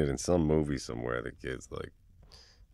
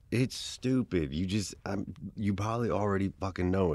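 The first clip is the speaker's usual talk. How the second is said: embarrassed; 5 semitones higher, 3 dB louder than usual. Acted. To a friend before confessing a crush, embarrassed. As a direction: stretch it out, cringing at yourself.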